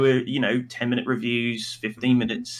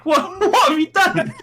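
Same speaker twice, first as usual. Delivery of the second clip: high laughing tease; 5 dB louder than usual. Real, not acted. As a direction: tease him while laughing. Laughing teasing question.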